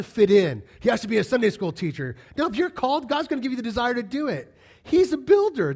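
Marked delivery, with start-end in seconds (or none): 4.8-5.7 emphatic proclaim. Real, not acted. Preacher proclaiming his point.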